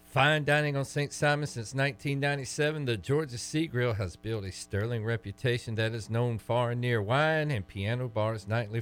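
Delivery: measured live sponsor read; scripted commercial delivery, easing off at the tag line; radio ad read. Acted. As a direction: read it like a local restaurant spot. Reads a restaurant sponsor ad.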